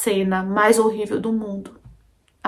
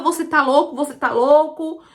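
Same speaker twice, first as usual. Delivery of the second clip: tearful cry; 5 semitones higher than usual. Retold or imitated. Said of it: "eu só chorava".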